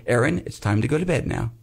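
low demo of a bedtime call. Shown as a demonstration. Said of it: "Let me hear you say".

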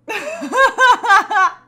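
high loud real laugh; cracking up at the friend's news; loud burst of laughter. Real, not acted. Friend's story makes her laugh.

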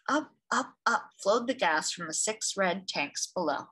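gentle read-aloud storyteller; story narration. A narrator's reading. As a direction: read it like a picture book for children. Reads picture book aloud.

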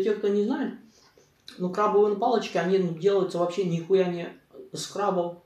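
chewing while talking; speaking between bites; mouth full. Real, not acted. Seen 0: fork brings bite to mouth at 0.5, then he talks while chewing.

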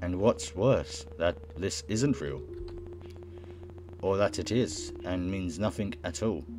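measured narrator, slow to begin; subdued, deliberate storytelling; story narration. Acted. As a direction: read it out deliberately. Reads game narration aloud.

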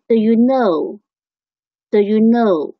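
slow "do you know", do reduced to "duh"; weak form of do. Shown as a demonstration. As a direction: model "do you know" slowly with a schwa in do. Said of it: "应该变成了的". (慢速示范，do弱读成“的”)

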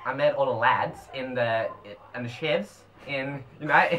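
put-on broad Aussie bogan; mock outback Australian accent. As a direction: play a bogan, halting. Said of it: "we're going Bogan".

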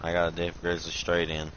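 talking around a dip; lip full of dip. Real, not acted. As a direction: mouth full of chewing tobacco. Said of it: "I done got a dip in too".

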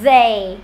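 "They" opening on a buzzing voiced TH. Shown as a demonstration. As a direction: model "They" alone with a voiced TH. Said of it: "âm này là âm hữu thanh".

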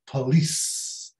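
"police" with a closed uh first, puh-LEES. Shown as a demonstration. Teacher modelling the closed A, "police" as puh-LEES. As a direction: keep the first vowel of "police" a short schwa. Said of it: "é um A fechado".

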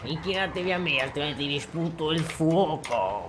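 slow menacing dragon lord; dark lord. Pretend. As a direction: threaten them like a dragon. Player acting dragon threatening.

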